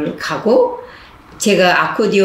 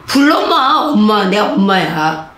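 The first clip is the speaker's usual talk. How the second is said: tender reply; 2 semitones higher than usual. Retold or imitated. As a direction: reassure him gently as his mother. Nun answering the inmate. (따뜻하게 엄마라 불러도 된다고 답하기)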